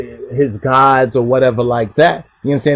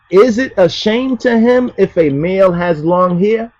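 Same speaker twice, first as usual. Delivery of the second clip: higher question rising on "him"; 5 semitones higher than usual. Shown as a demonstration. Preacher gives the true question form of the verse. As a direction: ask it plainly as a question. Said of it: "That's how the question really is".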